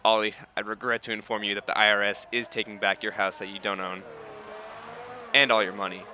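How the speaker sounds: put-on a light Californian accent; mock-formal announcement in a Californian accent. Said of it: "my Californian voice".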